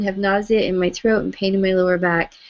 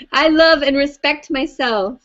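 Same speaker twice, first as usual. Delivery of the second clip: bright, higher, eager affirmation; enthusiastic; 5 semitones higher, 3 dB louder than usual. Shown as a demonstration. Tapping leader cheers the group on with enthusiasm. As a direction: say it like you mean it, cheerfully. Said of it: "Come on, with some enthusiasm now".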